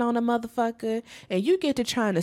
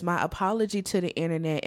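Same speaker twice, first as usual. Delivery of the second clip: mock apology; 2 semitones lower, faster than usual. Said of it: "Then she says".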